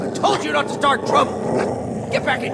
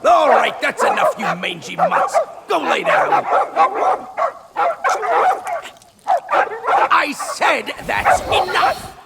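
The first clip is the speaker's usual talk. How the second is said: scolding; 5 semitones higher than usual. Acted. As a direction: shoo the dogs off. Scolding barking poodles.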